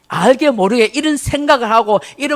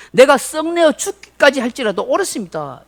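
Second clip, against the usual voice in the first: defiant talking back; 5 semitones higher than usual. Retold or imitated. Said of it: "하나님께 대들면서 말합니다".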